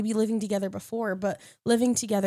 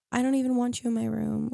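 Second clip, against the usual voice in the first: laughing quote. Retold or imitated. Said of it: "I'd be like".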